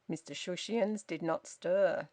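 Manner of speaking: usual speaking voice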